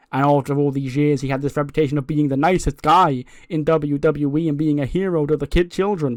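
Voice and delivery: emphatic promo, lightly acted; a hint of a cocky champion talking down a rival; boastful wrestling champion. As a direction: confront the challenger with self-righteous confidence. Champion confronts challenger in promo.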